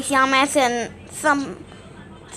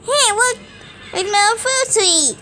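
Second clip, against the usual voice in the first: Swine Up voice; 6 semitones higher than usual. Shown as a demonstration. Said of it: "sounds like this".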